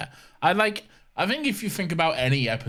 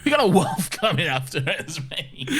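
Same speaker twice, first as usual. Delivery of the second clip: mock impatience; 3 semitones higher than usual. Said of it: "And Ted's like".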